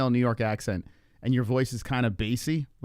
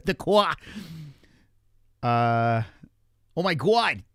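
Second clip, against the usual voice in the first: laughing; 3 semitones higher, slower than usual. Real, not acted. Laughing at Boston accents.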